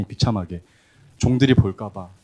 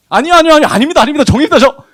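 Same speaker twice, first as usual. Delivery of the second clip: much higher, much louder desperate refusal; frantic protest; 12 dB louder, faster than usual. Acted. Son frantically refusing to be called his father's son. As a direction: cry out no, no, no in panic.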